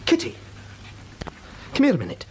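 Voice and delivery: urgent call to his wife. Acted. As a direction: shout for her from another room. Calling wife from next room.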